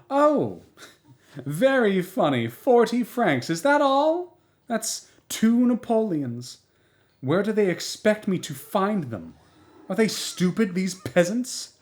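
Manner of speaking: high mocking laugh through the words; bright scornful laughter; laughing scornfully. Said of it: "She burst out laughing".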